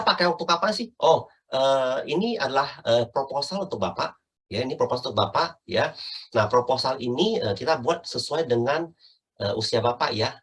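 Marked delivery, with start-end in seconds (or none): 2.1-10.3 "proposal untuk Bapak" said evenly, as plain information; matter-of-fact, even tune through "proposal ini"; level informing tone. Shown as a demonstration. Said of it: "itu nada datar semuanya".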